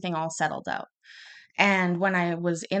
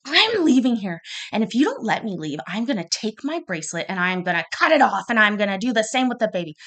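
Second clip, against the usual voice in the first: raised, higher voice, threatening to leave; a frantic ultimatum, pushed loud; freaking out; 3 semitones higher, 4 dB louder than usual. Retold or imitated. Sleepless new mother threatening the nurse, raised and frantic. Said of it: "freaking out".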